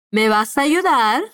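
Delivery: ¿Me vas a ayudar? spoken clearly, rising at the end; slow model phrase. Shown as a demonstration. Teacher models the question for students, slow and clear. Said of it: "Vamos, repite".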